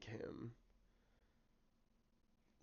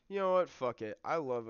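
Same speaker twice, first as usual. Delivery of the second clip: reckless decision; 4 semitones higher, 9 dB louder than usual. Real, not acted. Decides on risky tactic.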